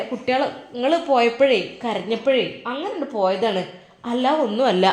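chatty mother explaining on the phone. Acted. Mother returns home. (മകനോട് ഫോണിൽ സംസാരിക്കുന്ന ഉമ്മ, അൽപം ഉച്ചത്തിൽ)

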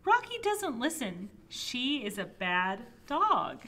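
animated storybook narration, loud opening stresses; reading to children. Acted. Child narrator describing a pet, animated storybook reading. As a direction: read it out with big swings in pitch. Reads picture book aloud.

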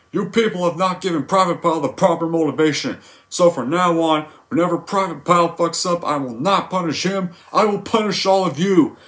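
high, barking drill sergeant voice; Sergeant Hartman. Retold or imitated. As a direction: yell at the recruit from above. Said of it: "How does the scene go?".

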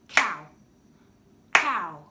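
"Cow" as one loud, short beat; clapped syllable. Shown as a demonstration. Teacher clapping out a word, "Cow" in one loud beat. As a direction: punch "Cow" out in a single syllable. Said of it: "let's clap it".

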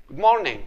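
"morning" with a very light R; barely touch the R in "morning". Shown as a demonstration. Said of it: "بصح حاول يكون خفيف".

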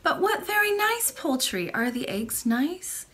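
high, bright little princess voice; excited young princess; cartoon princess. Princess delighted by pigeons.

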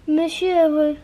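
normal talking voice

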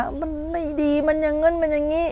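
high imitation of a complainer; mock grumbling. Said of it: "โวยวาย".

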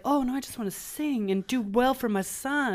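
joking, hammed-up Aboriginal Australian accent. Podcaster mimicking the prudish mother character, mock Aboriginal accent. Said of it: "That was my Aboriginal accent".

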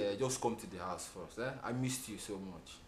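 low, soft sweet talk; tender coaxing. Acted. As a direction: coax your lover softly.

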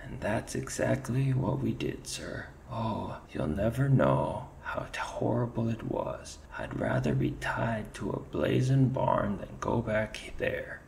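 nod along in a high Irish lilt; shaken Irish ferret. Acted. Ferret backing up his mate to the chief, Irish lilt.

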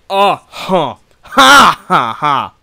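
loud, forced bursts of angry "ha"; angry outburst. Real, not acted. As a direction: explode in loud, high frustrated cries. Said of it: "Fucking anger".

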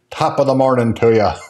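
a hint of a bad Irish accent; tossed-off mock Irish accent; half-hearted Irish greeting for Saint Patrick's Day. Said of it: "That was not a very good accent".

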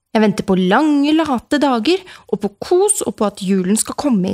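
put-on child pleading with dad, close to tears; whiny complaint. A narrator's reading.

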